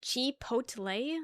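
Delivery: Chipotle? with a slow rising tune; slow questioning Chipotle; questioning pronunciation. Shown as a demonstration. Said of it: "How to say".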